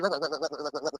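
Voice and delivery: rapid stuttered repeat, like an engine starting; sputtering lawnmower. Pretend. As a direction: loop the word like a motor turning over. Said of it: "Were you cracking up a lawnmower?".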